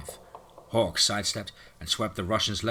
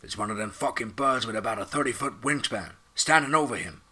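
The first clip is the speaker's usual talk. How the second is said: excited report; 4 semitones higher, 4 dB louder than usual. Acted. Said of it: "I S R announced".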